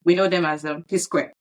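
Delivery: news anchor read; newscaster voice. Acted. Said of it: "why are you sounding like a newscaster".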